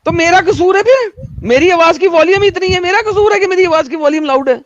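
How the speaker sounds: high-pitched argumentative questioning; indignant retort. Real, not acted. Indignant retort about own loud voice.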